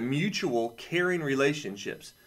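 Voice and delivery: slow, deliberate reading. Shown as a demonstration. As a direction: read slowly, weighing each word. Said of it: "I'll read this to you this way".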